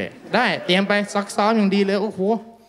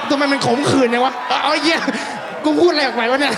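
high, loud exasperated laugh-shout; loud, high self-mocking cry; bitter laughing outburst; 8 semitones higher, 3 dB louder than usual. Real, not acted. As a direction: blurt it out, laughing at your own bitterness.

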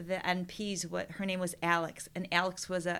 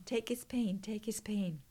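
whisper. Retold or imitated. Prayer fades to whisper.

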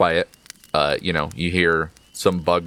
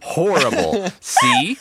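mock shriek; 13 semitones higher, 4 dB louder, slower than usual. DM reacts in a mock voice.

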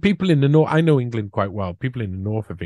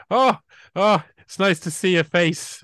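higher, louder mock greeting; imitating polite Brits; 8 semitones higher, 4 dB louder than usual. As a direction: play a chirpy Brit spotting a face in winter. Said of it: "and they go".

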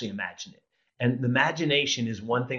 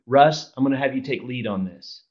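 dialogue demo. Shown as a demonstration. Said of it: "listen to that same thing delivered a different way".

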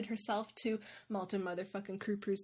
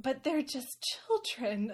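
slow pleading; 3 semitones higher, slower than usual. Retold or imitated. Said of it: "Elise says".

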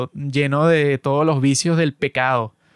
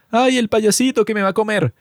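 lightly voiced frightened little child, a bit higher; mock scared kid; 5 semitones higher than usual. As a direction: whimper it like a kid scared of a clown. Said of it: "si tú eres un niñito y ves It".

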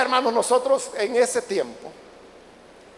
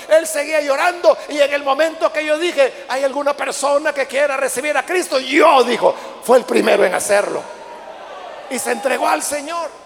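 loud, climactic, rising; sermon climax, loud; preaching at full force; 3 semitones higher, 5 dB louder than usual. Acted. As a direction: drive the conversion home. Climax of conversion story.

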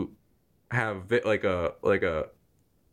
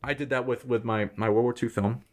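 spraying a little spit on consonants; talking with a bit of spit flying; spitting while talking. Real, not acted. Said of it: "Sorry, I'm spitting".

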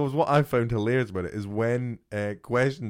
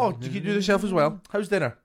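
mock wife; 7 semitones higher, 4 dB louder than usual. Mocking wife's flat reaction.

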